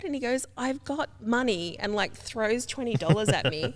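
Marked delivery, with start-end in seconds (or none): 0.6-1.8 put-on mumbling kid. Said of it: "mumbling something".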